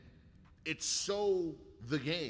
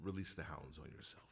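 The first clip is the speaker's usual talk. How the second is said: haughty villain command; 12 semitones lower, 12 dB quieter than usual. Acted. Villain order repeated.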